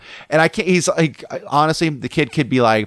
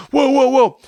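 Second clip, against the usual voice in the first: loud, high imitated "whoa"; retold urgent calming call; alarmed intervening; 13 semitones higher, 5 dB louder, slower than usual. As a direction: break up a fight as the friend. Friend gets between them to intervene.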